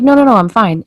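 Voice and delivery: insisting fine. Retold or imitated. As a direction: wave off the worry brightly.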